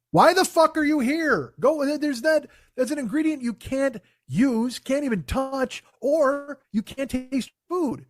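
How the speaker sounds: angry rant. Real, not acted. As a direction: vent at the contestant. Ranting at contestants.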